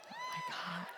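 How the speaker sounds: high, laughing mock gasp of delight; laughing exclaim. Speaker mimics a California audience with a laughing oh my God. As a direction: burst out laughing in fake shock. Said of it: "if I said it in California".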